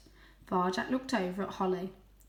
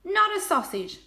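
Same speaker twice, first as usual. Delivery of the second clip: teasing; 12 semitones higher, 7 dB louder than usual. A narrator's reading. Tam teasing.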